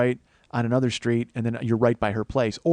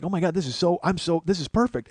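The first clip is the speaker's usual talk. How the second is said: higher, gushing retold delight; mildly excited; 6 semitones higher than usual. Wife gushing to husband about her sale, lightly imitated excitement. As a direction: imitate someone thrilled with her success. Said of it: "she's all excited".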